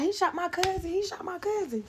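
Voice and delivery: very high panicked cry, easing off; a cousin wailing the news again; frantic cry. Retold or imitated. Dwight repeating the news to everyone, high panicked cry. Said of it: "So he like".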